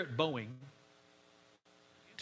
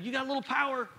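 encouraging; 7 semitones higher, 3 dB louder, faster than usual. Retold or imitated. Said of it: "actually an encouragement".

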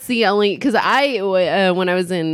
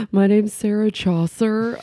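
hammy stage actor. Pretend. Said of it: "millennial thespian ... as a character".

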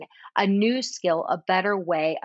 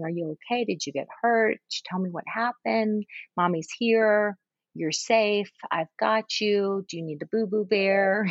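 tender comforting. Pretend. Comforting the crying child again.

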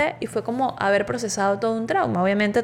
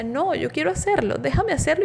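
retold crying plea; 7 semitones higher than usual. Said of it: "yo llorando le decía".

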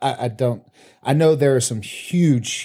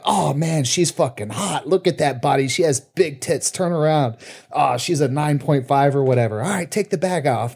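raised pitch, mock-appreciative ogling; impressed judge; 4 semitones higher than usual. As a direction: imitate judges hyping up a contestant. Voicing judges admiring a contestant.

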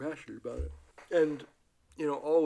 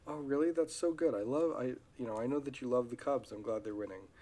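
warm wife reply. Retold or imitated. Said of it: "Turning toward would have been if the wife would have said".

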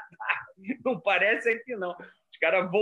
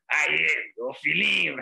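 Bispo Valdomiro impression; 3 semitones lower, 3 dB louder, slower than usual. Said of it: "o Bispo Valdomiro".

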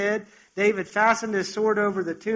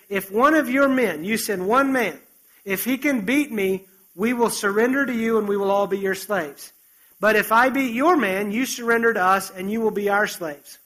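louder, booming dare from the pulpit; preached giant's challenge; 2 semitones higher, 4 dB louder than usual. Acted. Preacher booming Goliath's dare at Israel's army, loud and defiant. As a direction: call out the challenge like a warring champion.

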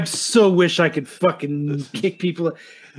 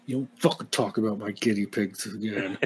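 laughing mock threat; 8 semitones lower, 11 dB quieter than usual.

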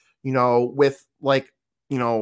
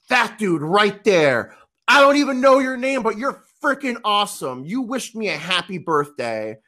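put-on excited girl voice; 10 semitones higher than usual.

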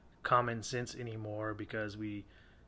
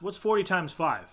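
higher, louder mock call to Google; mocking imitation; 4 semitones higher, 4 dB louder than usual. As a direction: ham up a clueless man asking his phone. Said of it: "but he goes".

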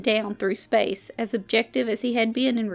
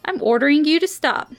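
raised, sharp command; captain asserting rank, higher and louder; commanding order; 5 semitones higher, 5 dB louder than usual. A narrator's reading. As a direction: bark the order to regain control. Captain commanding mutinous crewman.

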